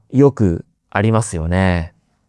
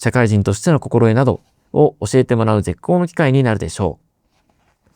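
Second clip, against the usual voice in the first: brisk, even read-aloud of a business text; reading aloud demo; 2 semitones lower, faster than usual. Shown as a demonstration. Teacher showing learners how reading aloud sounds, brisk textbook reading. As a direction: read the passage out clearly like a textbook. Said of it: "音読はこんな感じです".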